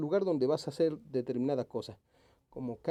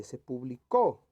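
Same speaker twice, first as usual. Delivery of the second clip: publicó stressed on CÓ; stress on final syllable; 3 dB louder, slower than usual. Shown as a demonstration. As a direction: land hard on the last syllable of publicó. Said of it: "Vamos a leer".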